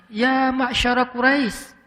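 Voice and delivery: slow, composed summons; gentle call. Shown as a demonstration. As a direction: call without straining. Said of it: "Yang beda justru khatib".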